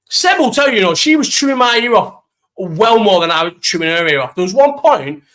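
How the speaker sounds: high, loud insisting; emphatic insisting. Real, not acted. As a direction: insist loudly to friends. Insisting to friends.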